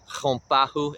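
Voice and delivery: chompahu opening on a throaty H; guttural H. Shown as a demonstration. Teacher giving word for winged, chompahu with guttural H. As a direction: scrape the first sound of chompahu in the throat, as H. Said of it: "It's a guttural H".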